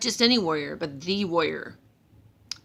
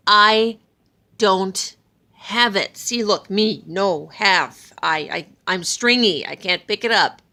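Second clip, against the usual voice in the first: exasperated; 4 dB louder than usual. Acted. Loki insists, exasperated.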